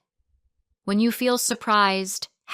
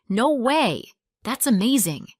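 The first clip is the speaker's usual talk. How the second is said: amazed, with swooping emphasis; delighted surprise; 3 semitones higher, 3 dB louder than usual. Shown as a demonstration. Reply to someone who won the contest, surprised. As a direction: react in happy disbelief. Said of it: "you're shocked or surprised".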